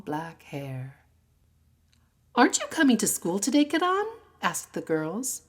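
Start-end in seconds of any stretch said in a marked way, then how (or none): 2.3-4.1 fast, high, loud calling out; eager call. Acted. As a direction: girls hurrying a friend along. Girls calling out to friend.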